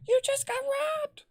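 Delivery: very high mock screech; squealed falsetto yell; Ingrid yelling. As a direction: imitate a friend shrieking bad news. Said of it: "yelling at me".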